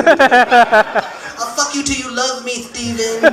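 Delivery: slow, drawn-out menacing threat; slow creepy menace; Mike Tyson voice. Retold or imitated. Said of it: "look at a little white boy".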